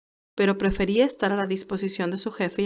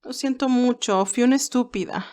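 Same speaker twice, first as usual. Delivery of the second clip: tearful apology; 4 semitones higher than usual. Acted. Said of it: "con sus ojos empezando de nuevo a llenarse de lágrimas".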